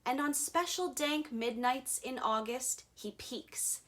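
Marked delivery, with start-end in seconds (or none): 3.0-3.8 breathy whisper, much softer; hushed. A narrator's reading. Narrator hushing as the Onceler peeks, whispered. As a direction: whisper it like peeking out. Sneaky peeking line.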